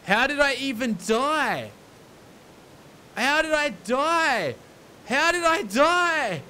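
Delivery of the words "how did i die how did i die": frustrated disbelief. Real, not acted. Frustrated after dying.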